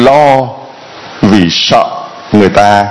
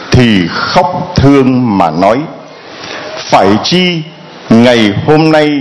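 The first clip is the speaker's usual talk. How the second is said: Gospel reading. Acted. Priest reading the Gospel to the congregation, solemn and measured.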